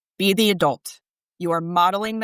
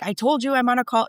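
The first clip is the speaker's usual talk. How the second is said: higher-pitched imitation of snapping; retold snap; 5 semitones higher, faster than usual. Imitating husband on a Zoom call to his son, mild snap. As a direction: mildly act out an irritated snap. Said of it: "my husband snapped at him".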